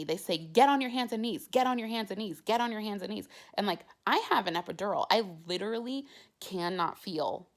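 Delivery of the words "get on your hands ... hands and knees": retold yell. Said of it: "they start yelling at me".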